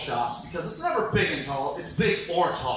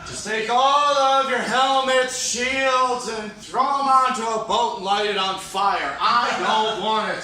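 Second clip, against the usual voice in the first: raised, exasperated rant; mock outrage; 3 semitones higher, 5 dB louder, slower than usual. Comic ranting at whoever gave him Viking gifts, mock outrage. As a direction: protest the gift loudly.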